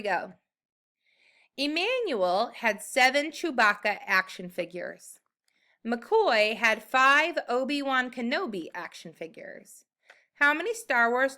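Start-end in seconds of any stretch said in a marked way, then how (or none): 1.6-5.2 slow, careful word-problem reading; slow read-aloud. Shown as a demonstration. Teacher reading the word problem slowly to young students. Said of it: "I'm gonna read it slowly". 5.9-9.8 whisper. Acted. Teacher reads problem aloud.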